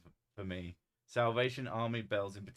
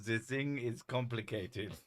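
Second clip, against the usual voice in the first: German politician English. Retold or imitated. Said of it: "They have the stereo-, stereotypical".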